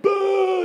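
high, loud mock shout of bah; mock scream. Prophets of Baal screaming to their god, hammed-up shout. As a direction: yell it like frantic prophets. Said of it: "So they're like".

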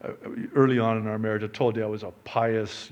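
ordinary delivery

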